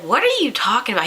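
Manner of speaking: mildly baffled comeback, voice lifted; retold disbelief. Told of a bald spot, answers baffled. Retold startled reply to Chris.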